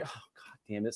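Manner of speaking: low, very soft grumble; retold resigned cursing. Husband reacting to wife's question about haircut, resigned. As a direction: act out cursing under the breath.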